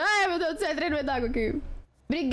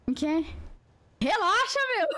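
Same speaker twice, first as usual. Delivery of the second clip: meme woman voice; 3 semitones higher than usual. Retold or imitated. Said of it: "da mulher que fala".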